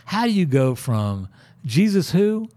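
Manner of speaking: puzzled, lifting into disbelief; retold bafflement. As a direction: question it in mild mock disbelief. Retelling his baffled reaction.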